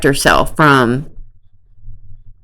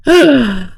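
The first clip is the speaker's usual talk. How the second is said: short, sharp gasp; a quick shocked intake of breath; 6 semitones higher than usual. Real, not acted. Shocked at what could be found.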